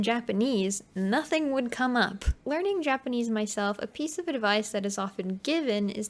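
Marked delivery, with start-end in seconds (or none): none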